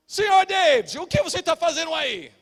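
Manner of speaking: high, loud call from behind; doorman calling out. Retold or imitated. Doorman catching his friend at the supermarket, calling out sharply. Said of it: "eu escuto uma voz".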